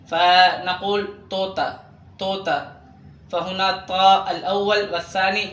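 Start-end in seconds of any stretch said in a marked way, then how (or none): 1.3-2.6 توتا with both letters as plain t; Urdu pronunciation. Shown as a demonstration. Teacher models written طاء sounded as te, light-t توتا. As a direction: say توتا "tota", light t's and long o. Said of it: "لكن ينطقان كت".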